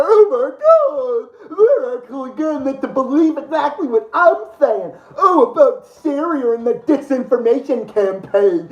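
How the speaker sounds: laugh-crying. Real, not acted. Mocking laugh-crying over news.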